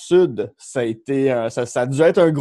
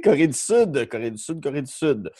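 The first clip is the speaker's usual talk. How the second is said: repeating it to drill it in; self-correcting repetition. Pretend. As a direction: say it over to yourself, fading. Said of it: "je me trompe à chaque fois".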